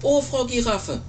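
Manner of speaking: a hint of a hopeful chick calling up; little bird character. Little bird greets giraffe in story.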